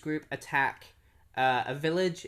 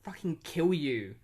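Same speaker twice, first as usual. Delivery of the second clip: raised, higher acted threat; mock threat; 4 semitones higher, 4 dB louder than usual. Mark threatening the daughter to get her to go, mock menacing. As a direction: play at scaring someone off. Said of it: "he ends up threatening her".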